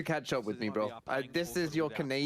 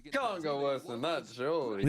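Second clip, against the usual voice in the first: sarcastic. Real, not acted. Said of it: "I was being sarcastic".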